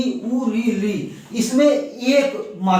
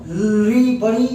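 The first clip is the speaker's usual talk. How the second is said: slow demonstration; much slower than usual. Shown as a demonstration. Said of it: "बड़ी री".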